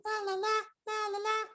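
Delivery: very high, soft puppet voice; sing-song la-las way up high, softly; Elmo. Acted. Teacher shows class how voices change, Elmo impression. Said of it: "I can sound like Elmo".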